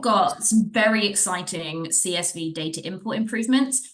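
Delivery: sarcastic-sounding tone. Moving to the next item in a product update, sounding sarcastic. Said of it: "it did sound quite sarcastic".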